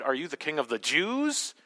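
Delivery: low start, JEWS swept sharply upward at the end; "King of the JEWS?", rising hard on the last word; stress on JEWS. Shown as a demonstration. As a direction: save the emphasis for JEWS. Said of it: "different ways that he could have said this".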